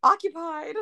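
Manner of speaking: high call breaking into laughter; laughing mock call. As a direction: sing out through a laugh. Playacts bathroom reply, laughing.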